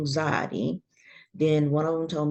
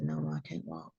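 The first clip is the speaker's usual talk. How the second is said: retold crying; 11 dB quieter than usual. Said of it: "I start crying".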